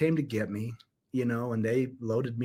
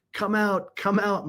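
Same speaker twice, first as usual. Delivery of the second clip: put-on raised, higher call of an excited boy; retold shouting; 6 semitones higher, slower than usual. Retelling his son calling the neighbors, excited shout. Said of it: "He started shouting".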